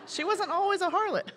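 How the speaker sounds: high, loud and laughing; laughing reassurance. Retold or imitated. Pastor consoling the mortified mom, through laughter. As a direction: imitate consoling someone while cracking up.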